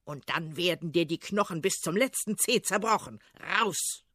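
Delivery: lightly voiced tsar in mock rage; furious tsar. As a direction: bark threats at the servant. Tsar threatens Ivan.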